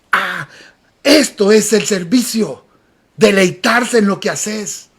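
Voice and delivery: slow, hushed dawning delight; retold savouring realisation. Preacher recalling his first service, slow hushed realisation. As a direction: let it sink in slowly, softly.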